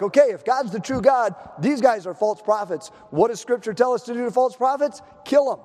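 rally the people as a fired-up prophet; emphatic acted proclamation; rousing command.

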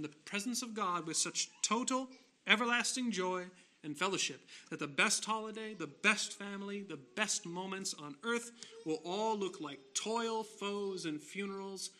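sustained, lifted pulpit cadence; impassioned preaching. Real, not acted. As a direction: drive through the list, leaning on each key word. Preacher at sermon climax.

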